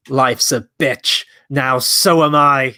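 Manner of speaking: slow purring Catwoman, half-hearted; a lightly voiced sultry Catwoman; Catwoman impression. Co-host attempting Catwoman's line. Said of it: "It's Catwoman from Batman Returns".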